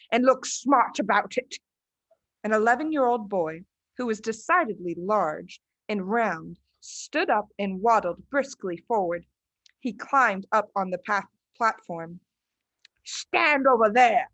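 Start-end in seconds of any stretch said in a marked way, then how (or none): 0.1-1.6 stern headmistress. Acted. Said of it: "the Trunchbull shouted". 13.1-14.3 curt order. Acted. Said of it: "the Trunchbull ordered".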